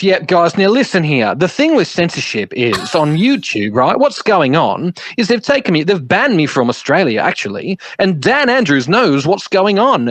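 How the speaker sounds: a hint of a preachy conspiracy lecture; imitating David Icke. Retelling David Icke's opening on the podcast call, lightly voiced lecturing rant. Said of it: "And he goes".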